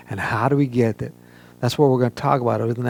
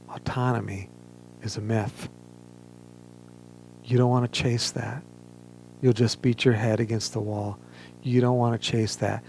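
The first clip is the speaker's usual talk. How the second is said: loving but firm; 4 dB quieter than usual. Retold or imitated. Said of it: "very lovingly, but very firmly".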